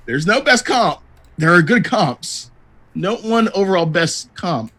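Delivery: measured PR line, slowing for emphasis; mock PR statement. Giving Sly's official line on comps, as a PR statement. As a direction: state it like a careful official denial. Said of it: "this is just a P R statement from Sly".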